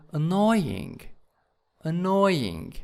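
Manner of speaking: "annoying" punched on NOY; stress on second syllable. Shown as a demonstration. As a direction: lift and lengthen the NOY in "annoying". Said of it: "in the second syllab".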